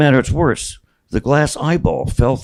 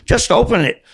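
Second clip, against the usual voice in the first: much higher, louder begging cry; pleading cry; 13 semitones higher, 4 dB louder than usual. Retold or imitated. Boy begs mom to open the gift, near tears. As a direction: blurt it out, can't wait.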